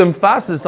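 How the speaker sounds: "emphasis" as em-FASS-is, middle syllable stressed; misplaced stress. Shown as a demonstration. Teacher jokes about the wrong place, "emphasis" stressed em-FAS-is. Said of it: "on the wrong place of the word".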